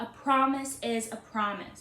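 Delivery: plain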